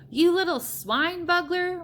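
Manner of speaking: high, loud, slow roaring insult; furious roar. A narrator's reading. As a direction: roar the insult as an enraged giant. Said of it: "roared the blood bottler".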